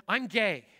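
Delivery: loud, retold tense announcement; tense declaration. Young man confronting the pastor after the message, retold tense declaration. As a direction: blurt it out firmly, imitating his tension. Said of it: "high level of tension and passion".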